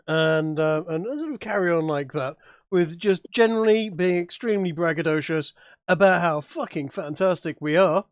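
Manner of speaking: normal talking voice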